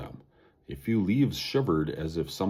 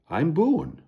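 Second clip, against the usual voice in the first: friendly; 10 semitones higher, 4 dB louder than usual. Acted. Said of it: "in a friendly way".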